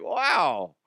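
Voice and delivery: high, drawn-out jeering heckle; mock heckling from the back; shouted heckle. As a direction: call it out, pitched well up. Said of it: "shout out from the background".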